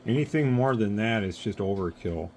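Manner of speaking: losing voice, hoarse; rough, strained throat. Real, not acted. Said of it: "losing my voice here".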